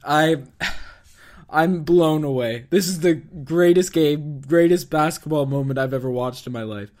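hoarse, voice gone from screaming; worn-out scratchy voice after yelling. Real, not acted. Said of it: "my voice is gone from screaming".

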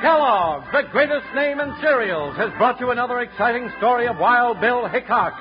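booming radio sign-off; old radio announcer. Acted. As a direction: announce it like a fifties radio host. Closing announcer read.

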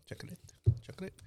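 Chocolate whispered softly, Spanish way; whispered Spanish try. Shown as a demonstration. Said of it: "my Spanish is terrible".

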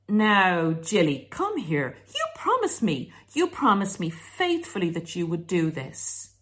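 mock stern parent telling off Jilly; scolding a child. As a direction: talk down like to a naughty kid.

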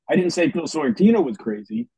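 "Sorrentino" given the weight; stress on Sorrentino. Shown as a demonstration. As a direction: lean on the name "Sorrentino". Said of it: "Each sentence meant something different".

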